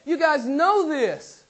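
lightly voiced apostle; voicing James. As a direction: hand it to them like James would. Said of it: "he says".

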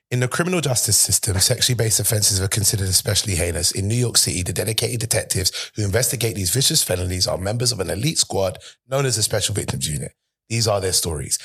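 low, solemn Law and Order narrator; TV announcer intro. Shown as a demonstration. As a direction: read it like the serious show opening. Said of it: "I can do this every episode".

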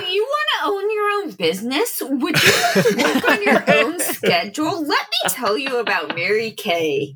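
sales pitch. Acted. Merchant character pitching a business to a stranger, hammed-up sales voice. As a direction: pitch it like a peppy recruiter.

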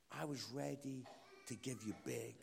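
mildly solemn, as God answering; gentle God voice. Retold or imitated. God answering a small request, gently solemn.

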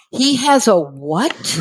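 slow, stunned question; drawn-out stunned disbelief; shocked disbelief. Retold or imitated. Wife hearing husband has a tumor, stunned disbelief.

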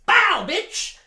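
high, explosive battle cry; Dobby. Retold or imitated. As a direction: shout it like firing off a spell. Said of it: "And then Dobby is like".

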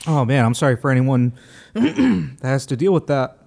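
throat still catching on water; coughing up water. Real, not acted. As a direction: talk through a scratchy throat. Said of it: "Water went down the wrong pipe".

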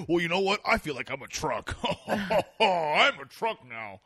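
lightly put-on voice, laughing through the end; mocking the guest. Host teasing his guest by imitating her, lightly mocking and laughing. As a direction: tease with a mock silly confession. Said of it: "You didn't go like".

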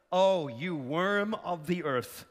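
slow, low mocking put-down; a hint of a contemptuous voice; mock scornful angel. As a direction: sneer it like a scornful angel, lightly. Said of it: "Is that what the Bible says?".

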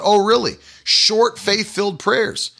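"Short, faith-filled prayers?" asked back with a mocking rise on "prayers"; sarcastic disbelief. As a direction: scoff at the idea, mildly incredulous. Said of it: "I thought".

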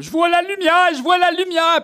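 high, loud, awed tripping voice; blissed-out mystic crying out; tripping hippie voice. Retold or imitated. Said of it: "puis ils sont comme".

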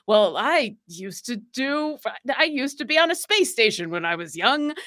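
mock chat voice. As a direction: ham it up like chat copying her. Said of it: "a whole game in chat of like".

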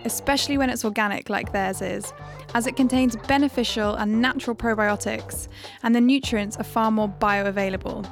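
upbeat host intro over music; podcast intro read. Acted. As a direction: read it like a show opener.

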